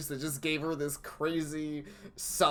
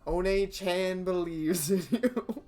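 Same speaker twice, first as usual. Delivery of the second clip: put-on southern accent; 3 semitones higher than usual. Big sister encouraging her sibling before he leaves, light Southern accent. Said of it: "I freaking love this southern accent".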